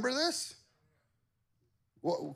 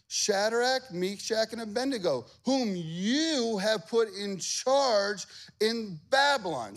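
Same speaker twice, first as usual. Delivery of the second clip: higher, slow tattling courtier voice; accusing officials; 6 semitones higher, slower than usual. Acted. Officials accusing the Jews to the king, tattling. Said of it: "They said this".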